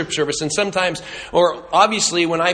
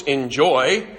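sarcastic air quotes; 5 semitones lower than usual. Acted. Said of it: "air quotes".

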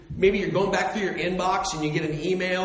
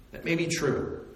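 softer echo, stress on may; quieter repeat; 2 semitones lower, 5 dB quieter than usual. Shown as a demonstration. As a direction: drop the volume and let "may" carry it.

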